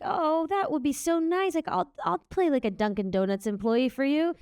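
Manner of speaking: excited gush. Retold or imitated. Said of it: "I was like".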